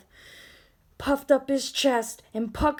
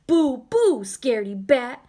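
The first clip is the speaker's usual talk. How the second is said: shouting; 3 semitones higher, 6 dB louder than usual. Acted. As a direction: shout after the fleeing bat. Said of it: "Ben shouted after it".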